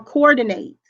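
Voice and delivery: coordinate ending in a full -nate; verb coordinate. Shown as a demonstration. Teacher demonstrating coordinate as the verb. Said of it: "can be pronounced two ways".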